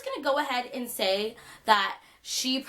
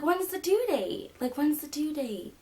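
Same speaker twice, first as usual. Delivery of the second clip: higher, slow, pushy asking; insistent question; 5 semitones higher than usual. Retold or imitated. Woman insisting to the narrator, pushy repeated question. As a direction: press the question on her. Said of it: "And she's like".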